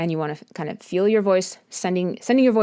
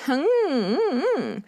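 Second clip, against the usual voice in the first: thin whimper; 8 semitones higher than usual. Shown as a demonstration. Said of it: "that thin little".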